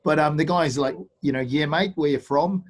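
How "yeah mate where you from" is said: put-on New Zealand accent. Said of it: "Which is my New Zealand accent".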